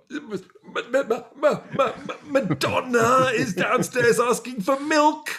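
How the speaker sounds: loud, high, slow stammer broken by laughs; stammering panic. Retold or imitated. Telling flatmate Hugo Madonna is downstairs, loud high laughing stammer. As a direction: trip over the name in breathless excitement.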